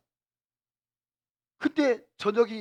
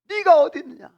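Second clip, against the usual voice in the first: God calling Adam; 5 semitones higher, 6 dB louder than usual. Acted.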